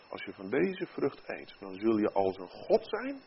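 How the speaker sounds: tempter. Acted. Satan tempting Eva further, soft low tempter. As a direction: tempt quietly, dropping the voice. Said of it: "Vervolgens gaat Satan verder en zegt".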